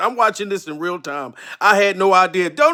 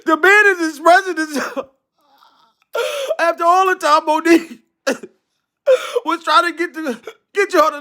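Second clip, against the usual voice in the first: hammed-up crying through laughter; fake-blubber while cracking up; laughing mock sob; 8 semitones higher than usual. Mock-crying over the dad.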